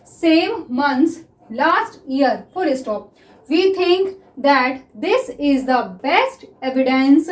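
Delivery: very slow dictation with spoken punctuation; measured dictation pace, saying comma and full stop aloud; dictation reading. Shown as a demonstration. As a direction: read it out slowly for shorthand students to take down. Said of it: "देखिए सबसे पहले मैं इसको read कर रही हूँ".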